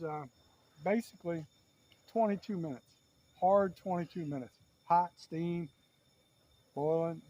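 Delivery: playful hint of a Southern good-old-boy accent. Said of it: "getting back to my Yankee voice".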